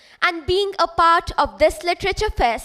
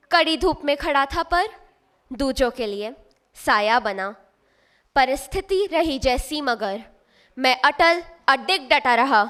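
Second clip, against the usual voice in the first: measured Hindi verse recital, pausing after each line; poem recitation; much faster than usual. Acted. Student reciting a poem on selfless service, measured recitation. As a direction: recite in couplets, dropping at each close.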